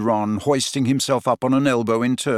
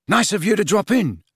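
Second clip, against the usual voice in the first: grinning Ron; 8 semitones higher than usual. A narrator's reading.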